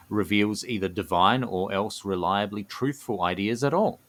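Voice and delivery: measured storyteller's read with deliberate pauses; lore narration. A narrator's reading. Co-host presenting the gnomes' Dreaming Society, measured lore narration. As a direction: unveil the secret phrase by phrase.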